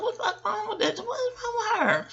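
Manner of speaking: high, laughing mock outrage; laughing disbelief. Recalling her first reaction to the show, laughing disbelief. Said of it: "I was like".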